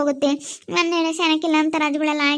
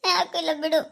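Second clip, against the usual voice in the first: tearful; 3 semitones higher than usual. Acted. Upset daughter telling them to leave it, tearful. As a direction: deny it through held-back tears. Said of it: "ನೀನ್ ಹಿಂಗೆ ಅಳ್ಬಾರ್ದಮ್ಮ".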